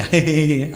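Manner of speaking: mock giggle of a carefree bride; put-on laugh, imitating the bride; imitated bride's laugh. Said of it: "പെണ്ണ് ചിരിക്കുക".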